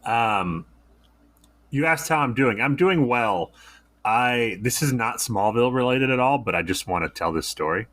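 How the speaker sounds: talking through a swollen lip; puffy lip, slightly thick speech. Real, not acted. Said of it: "if I sound funny, it's because half my lip is swollen".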